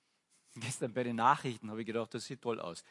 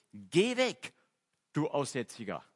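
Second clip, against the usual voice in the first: angry shout; 2 semitones higher, 6 dB louder, slower than usual. Retold or imitated. Crowd threatens the leper.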